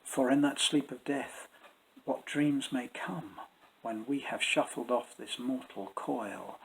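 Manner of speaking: soft, deliberate reading of verse; verse recitation. Shown as a demonstration. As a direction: speak the lines to show the steady ten-beat rhythm. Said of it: "Listen to this".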